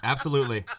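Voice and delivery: said through real laughter; laughing. Real, not acted. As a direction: agree while still cracking up. Laughing at the joke.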